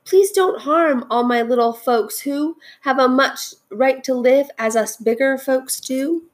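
high, sustained plea; begging. A narrator's reading. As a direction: beg desperately for the little folks. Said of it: "and begged".

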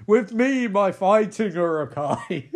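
hammed-up warlord rally breaking into laughter; drawn-out comic battle call; mock rallying cry. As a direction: lead the charge, half-laughing. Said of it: "I know it's terrible".

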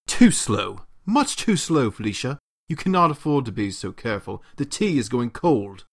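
a butler's stiff, scolding bad British accent. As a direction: scold the clumsy maid in a put-on British accent. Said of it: "attempt to do a bad British accent".

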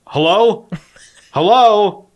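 high loud hello, half laughing; receptionist hello. Retold or imitated. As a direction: call out a puzzled hello, laughing. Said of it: "And they go".

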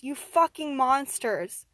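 slow, high, loud rage; furious shout. Acted. Survivor to captors who forced killing, furious shout. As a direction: yell it slowly, hurling the accusation.

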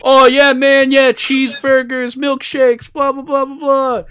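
high, loud hammed-up stereotype American; playing the cartoon American for laughs; mock American. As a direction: ham up a goofy burger-loving American. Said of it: "Like, the Americans always like".

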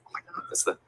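whispered aside, retold; barely voiced starstruck murmur; hushed amazement. Host spots a head coach in front row, hushed awe.

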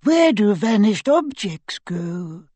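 slow, high, lilting riddler; musical voice. Acted. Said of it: "the musical voice asked".

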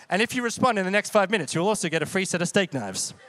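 fast, hammed-up TV pitchman; infomercial voice. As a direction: sell it like a late-night ad. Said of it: "sounds like an infomercial".

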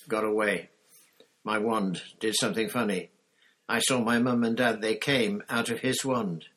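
a lightly voiced teenage boy pushing the words out; shaken boy. Harry tells Moody Cedric was killed, urgent and shaken.

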